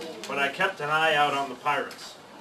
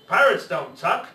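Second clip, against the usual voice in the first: gruff refusal; 2 semitones higher, 5 dB louder than usual. Acted. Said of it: "he bellowed".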